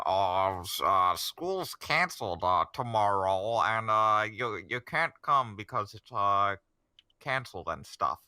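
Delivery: a hint of a bad principal voice, loud in places; lightly put-on, clumsy school principal; terrible Principal Pixie Frog. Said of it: "trying to do a very terrible Principal Pixie Frog impression".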